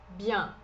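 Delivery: Bien with a nasal ending, like the Portuguese ão sound; Bien as bian, nasal; nasal French vowel. Shown as a demonstration. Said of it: "Esse E N é um som um pouquinho mais nasal". (Bien com som nasal)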